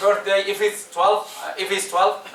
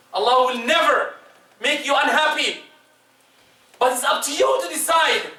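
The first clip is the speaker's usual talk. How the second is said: preaching shout; 4 semitones higher than usual. Real, not acted. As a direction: call it out to the crowd. Preacher exhorts the congregation.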